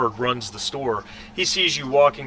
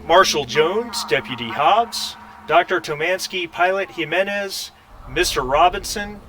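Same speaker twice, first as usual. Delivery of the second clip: measured, slightly raised station announcement; intercom page; 4 semitones higher than usual. Acted. Sven calls staff across the station, intercom page. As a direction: page each name over the intercom, lifting the endings. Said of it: "you hear his voice come across".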